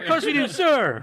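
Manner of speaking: high voice breaking into laughter; high squeaky quote, laughing. Retold or imitated. Repeats the movie quote.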